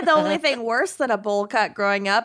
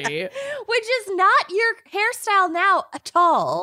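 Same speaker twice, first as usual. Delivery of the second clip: laughing; 9 semitones higher, slower than usual. Real, not acted. Teasing about bowl cut.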